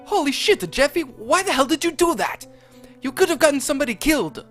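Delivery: high, loud panicked yell; Chef Pee Pee yelling. Acted. Chef yells at Jeffy for throwing hot oil, high and loud. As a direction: shriek it high and fast at the end. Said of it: "Chef Pee Pee yelled".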